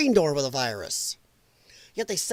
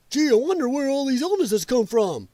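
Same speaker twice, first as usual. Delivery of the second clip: high, mock-innocent sarcastic wonder; 5 semitones higher than usual. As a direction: feign innocent puzzlement, dripping sarcasm.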